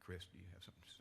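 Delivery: hushed whisper to a colleague; whispered aside. Real, not acted. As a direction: lean over and whisper it. Aside to colleague during eulogy.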